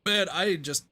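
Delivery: talking through hiccups; words broken by hiccups. Real, not acted. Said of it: "I'm hiccuping a ton".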